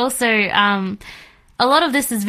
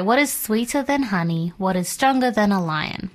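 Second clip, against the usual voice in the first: softer, measured verse reading; scripture reading; 4 dB quieter than usual. A narrator's reading. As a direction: read the riddle's answer aloud, softly and evenly. Rereads the verse after a slip.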